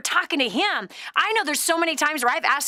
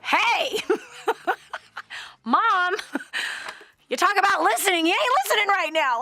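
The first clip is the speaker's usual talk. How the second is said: mock kid calling out; 6 semitones higher than usual. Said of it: "then your kids hold up your book and go".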